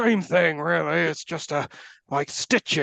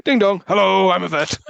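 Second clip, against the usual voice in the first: mock cheery vet; 2 semitones higher, 5 dB louder than usual. Voicing the vet at the door.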